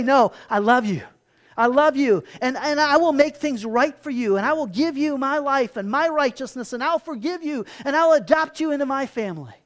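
loud, earnest voice of God from the cross; fervent plea. Acted. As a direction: pour out each promise with rising force.

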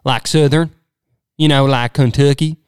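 lively Kentucky accent; Southern accent. Shown as a demonstration. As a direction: show off a Southern twang. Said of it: "accents I think I enjoy doing".

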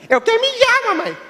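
put-on high, piercing call of a small child; shouting little boy. Little altar boy calls his mom mid-mass, high childish shout. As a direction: yell for mom across the silent church. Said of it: "ele só gritava".

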